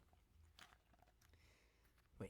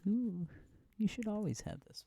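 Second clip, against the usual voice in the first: excited; 11 semitones higher, 7 dB louder than usual. Real, not acted. Sudden excited outburst.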